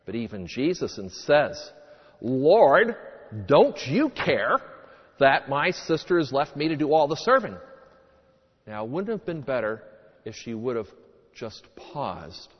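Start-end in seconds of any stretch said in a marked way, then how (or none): 2.2-7.6 scolding. Retold or imitated. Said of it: "she scolds not just Mary, but even Jesus".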